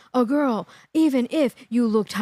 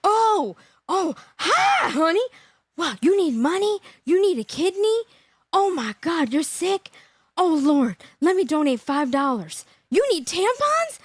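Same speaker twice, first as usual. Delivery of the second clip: mock fawning woman; 3 semitones higher than usual. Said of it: "you're like".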